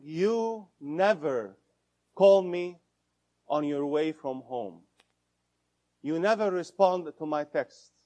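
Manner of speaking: blaming, attacking tone; accusing you-statement. Shown as a demonstration. Couple therapist demonstrating a blaming complaint, accusing. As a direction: sound like you're pointing a finger. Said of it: "That's an attack".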